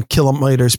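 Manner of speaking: mock-French "kilometers" with MY in the middle; odd French-accent attempt. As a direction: say "kilometers" as "kilo-MY-ters". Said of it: "trying to use my French accent".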